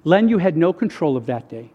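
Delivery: low, sober, subdued voice; quiet, grave reassurance; God. Retold or imitated. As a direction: imitate a solemn word from above, spoken low. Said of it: "And God said this".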